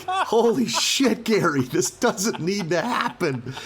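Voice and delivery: high, drawn-out imploring protest; retold pleading, slow and high; exasperated plea. Imagined plea to struggling comic Gary.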